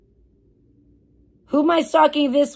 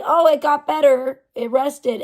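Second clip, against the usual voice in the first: mocking; 3 semitones higher, 4 dB louder than usual. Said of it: "It's not like".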